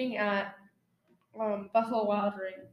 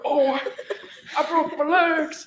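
put-on Texan accent; 2 semitones higher, 4 dB louder than usual. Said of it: "some Texan guy that broke his legs".

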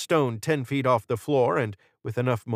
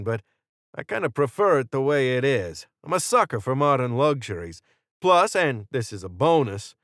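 higher, emphatic, cocky gunman; Jordan; 6 semitones higher, 4 dB louder than usual. A narrator's reading. Jordan refusing Israel while holding a hostage, cocky and threatening. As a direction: lay down terms with breezy menace.

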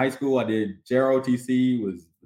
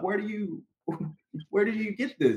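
mocking incredulous question; 9 semitones higher, 5 dB quieter than usual. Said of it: "fake Southern accent sometimes when they're commanding".

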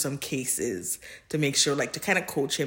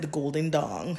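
cracking up mid-word; laughing out; 5 dB quieter than usual. Real, not acted. Quoting Draco's phrase, laughing.

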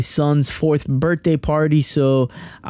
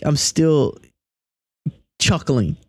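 ordinary talk

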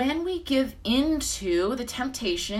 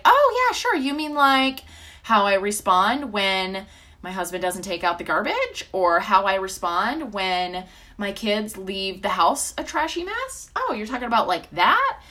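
sarcastic listener voice. Pretend. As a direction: play the defensive listener, eyes rolling. Mocking a listener's reply.

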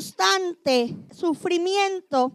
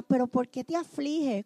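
pregunta en voz baja de esposo; Elcana suave; 3 semitones lower, 6 dB quieter than usual. Retold or imitated. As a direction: consolar con ternura contenida. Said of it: "Elcana le preguntaba a Ana". (Elcana a Ana llorando, pregunta suave)

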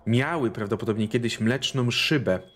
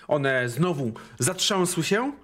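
ordinary talk, nothing marked

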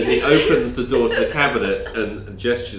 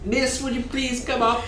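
showman voice; 12 semitones higher, 4 dB quieter than usual. Acted. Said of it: "And he says".

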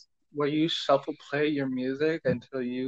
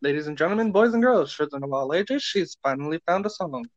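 ringmaster. Pretend. Mock announcement of found song.

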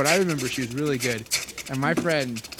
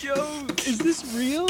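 stunned; 13 semitones higher, slower than usual. Retold or imitated. Retold laughing disbelief.

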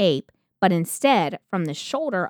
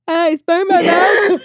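high, slow, loud whine; whiny victim voice; 11 semitones higher, 9 dB louder, slower than usual. Retold or imitated. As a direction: whimper like a pitiful plaintiff. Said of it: "I'd be like, at the trial".

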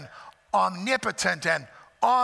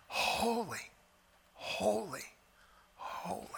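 softly, dying away to a breath; soft, fading holy; 2 semitones higher, 10 dB quieter, slower than usual. Shown as a demonstration. Preacher demonstrating a hushed angelic holy. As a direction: whisper it, trailing off. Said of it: "It could have been".

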